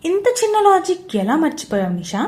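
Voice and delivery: loud, gloating taunt; a confident man mocking his trapped rival; cool and mocking. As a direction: rub her mistake in her face. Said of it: "అడిగాడు దేవ్ కూల్గా".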